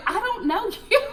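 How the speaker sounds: imitating blunt dad. Dad answering Colton.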